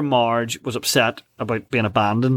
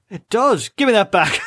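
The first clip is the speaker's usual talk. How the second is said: higher, grabby Homer voice; mock Homer snatching back; 7 semitones higher, 4 dB louder than usual. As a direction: playfully voice Homer taking the stone back.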